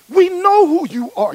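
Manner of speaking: high, loud terrified outburst; frightened demon cry. Retold or imitated. Demons recognizing Jesus, crying out in loud high terror. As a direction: cry it out like a cornered spirit.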